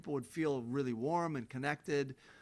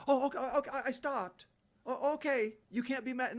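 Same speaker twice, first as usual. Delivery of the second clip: mock pleading; 10 semitones higher than usual. Mocking abusers asking for forgiveness.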